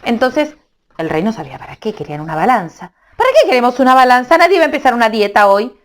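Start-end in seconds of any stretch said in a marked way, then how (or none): 3.2-5.8 fast scoffing king. Acted.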